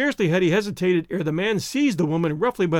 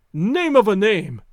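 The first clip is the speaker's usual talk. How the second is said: slow, louder outraged exclamation; shrieked; 3 semitones higher, 5 dB louder, slower than usual. A narrator's reading. Man thrown against the rail, shrieking at his attacker. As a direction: draw out a narrated angry cry. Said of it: "shrieked Rokoff".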